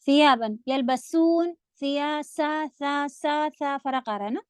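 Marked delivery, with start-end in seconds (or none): 0.1-0.7 ثِيَابًا with a hissing tongue-tip ث; whistled sound. Shown as a demonstration. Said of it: "سیٹی کی آواز لے کے". (ثِيَابًا سیٹی کی آواز کے ساتھ)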